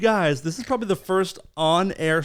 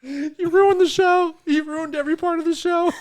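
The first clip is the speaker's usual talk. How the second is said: mock scolding; 10 semitones higher, 4 dB louder than usual.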